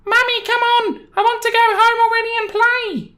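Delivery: put-on very high, whiny child voice; a bored little boy pestering his mother; bratty kid. Entitled kid whining to his mum to go home, very high.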